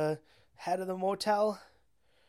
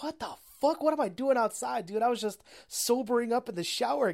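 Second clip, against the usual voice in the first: indignant tire; 3 semitones higher than usual. Retold or imitated. Tire wakes up thrown outside, mock indignant. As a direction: wake up confused and protesting, hammed-up.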